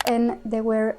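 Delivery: English title said slowly in a thick French accent. Real, not acted. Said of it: "Excusez mon accent bien français".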